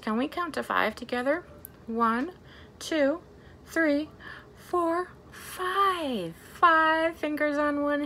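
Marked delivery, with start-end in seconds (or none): 1.9-6.3 each number higher than the last; counting up. Shown as a demonstration. Librarian counts fingers with the children, rising. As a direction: climb up as you count.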